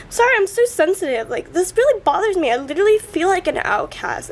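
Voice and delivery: upset, pitch lifted at the start; close to tears. Real, not acted. Apologising to viewers for being so sensitive, close to tears. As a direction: hold back real tears while confessing. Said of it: "I'm gonna actually burst out crying".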